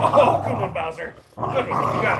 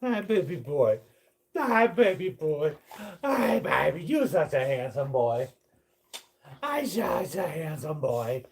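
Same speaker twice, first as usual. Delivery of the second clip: cooing pet talk. Real, not acted. Cooing over a dog.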